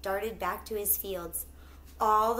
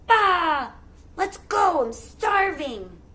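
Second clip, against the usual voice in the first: higher, louder bleating sheep voice; hungry sheep; 8 semitones higher, 7 dB louder, slower than usual. Acted. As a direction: bleat it out, impatient for food. Sheep speak.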